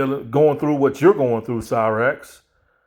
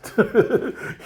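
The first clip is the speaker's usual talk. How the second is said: short laugh; 8 semitones higher than usual. Real, not acted. Laughing at Cyrax's fate.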